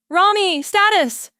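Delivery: very high, loud demand; demanding shout. A narrator's reading. Captain demanding status from Rami, loud high shout. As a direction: snap for a report. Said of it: "Elias demanded".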